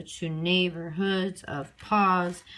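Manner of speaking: slow "to neighborhoods of pause", TO kept light; light to, then beats on NEIGH, HOODS and PAUSE; unstressed TO. Shown as a demonstration. Teacher scanning the line, no stress on to. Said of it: "I'm not stressing the word to".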